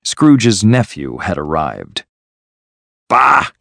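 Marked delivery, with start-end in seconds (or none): 3.1-3.5 mildly angry, raised exclamation; angry scoff. A narrator's reading. Scrooge dismissing his nephew's greeting, mildly angry. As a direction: scoff crossly, a little higher. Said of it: "said Scrooge angrily".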